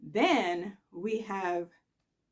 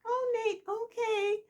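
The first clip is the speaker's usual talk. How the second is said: high, airy and clueless; lightly voiced ditzy greeting; oblivious Nikki; slower than usual. Nikki greeting Nate without noticing anything, high.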